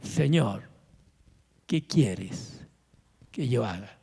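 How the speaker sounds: a man shaken before God, asking meekly; trembling and fearful. Acted. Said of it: "y él temblando y temeroso dijo".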